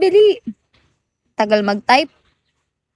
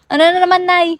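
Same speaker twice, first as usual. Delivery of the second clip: exasperated call; 5 semitones higher, 4 dB louder than usual. Real, not acted. Calling out to mother.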